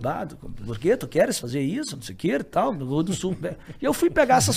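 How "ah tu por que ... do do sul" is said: put-on southern accent. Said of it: "ele meio do sul".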